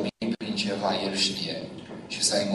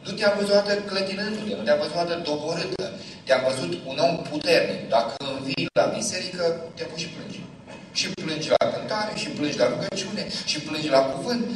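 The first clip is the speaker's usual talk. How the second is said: put-on child pleading; 5 semitones higher than usual. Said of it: "Mamă, zice".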